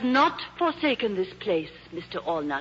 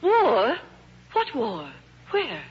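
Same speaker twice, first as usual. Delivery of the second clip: sudden alarm at the word war; startled; slower than usual. Acted. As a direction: caught off guard by the news.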